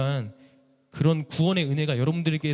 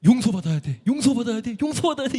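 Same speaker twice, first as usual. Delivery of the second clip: rising higher each time, loud and desperate; frightened pleading; 8 semitones higher, 6 dB louder than usual. Retold or imitated. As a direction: beg harder with every repeat. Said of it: "너무 무서워가지고".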